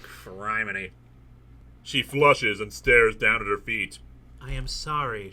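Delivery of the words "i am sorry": very soft, hushed apology; whispered. A narrator's reading. Woman apologizing to the man, whispered. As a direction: barely voice the apology. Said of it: "she whispers".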